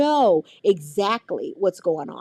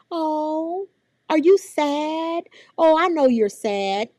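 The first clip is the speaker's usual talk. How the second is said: put-on higher, sing-song talking down to a child; condescending adult; 5 semitones higher, slower than usual. Teacher imitating an adult speaking for a child. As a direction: put words in the child's mouth, sweetly. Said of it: "don't speak for them".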